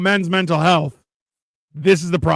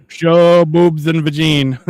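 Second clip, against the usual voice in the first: mock reading; 5 dB louder, much slower than usual. Reading a viewer's message.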